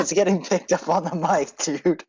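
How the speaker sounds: laughing while talking. Real, not acted. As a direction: say it through laughter. Laughing at the toy revolver noise.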